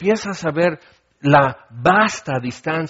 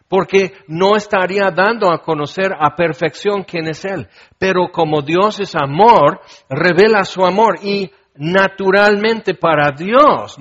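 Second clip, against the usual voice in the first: higher, louder impassioned preaching; preaching at full force; 4 semitones higher, 5 dB louder than usual. Acted. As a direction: drive home God's love. Preaching climax on God's love.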